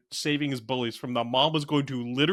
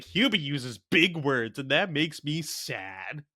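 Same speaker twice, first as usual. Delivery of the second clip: slow mock dim line; slower than usual. Imitating Ray Liotta's character.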